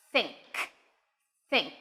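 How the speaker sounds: "think" said slowly as a lone word, falling; example word think. Shown as a demonstration. Teacher introduces the example word to learners, careful TH in "think". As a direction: say "think" on its own with a clean TH. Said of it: "let's go with the example of".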